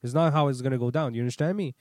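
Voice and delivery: loud, firm retold outburst; snapping. Driver to the rude towing guy: loud angry retort. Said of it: "dude, I snapped".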